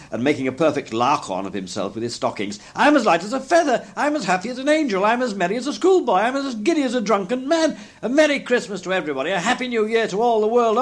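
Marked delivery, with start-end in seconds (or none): 2.7-10.8 high, breakneck elation; Scrooge, giddy joy. A narrator's reading. Scrooge beside himself while dressing, giddy with joy. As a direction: rattle it off giddily in a raised voice. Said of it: "laughing and crying in the same breath".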